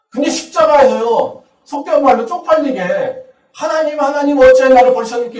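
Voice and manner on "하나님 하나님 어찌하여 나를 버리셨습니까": fast, louder mock wail to God; hammed-up shameful complaint; mocking cry. Pastor mocking Jesus's cry as embarrassing, a hammed-up wail. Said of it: "이렇게 외치고 있습니다".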